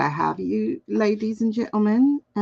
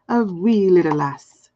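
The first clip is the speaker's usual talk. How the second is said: light Scottish lilt on a wee little lass; a hint of a Scottish lass; Scottish accent; 3 semitones lower, 3 dB louder than usual. Shown as a demonstration. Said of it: "I've been doing accents since I was a child".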